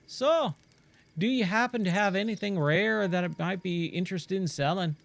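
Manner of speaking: hammed-up mongrel accent for a friendly traveling trader; Giro in muddled accent. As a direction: blend Australian, Irish and Scottish accents, playfully. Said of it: "I have no idea what accent that is".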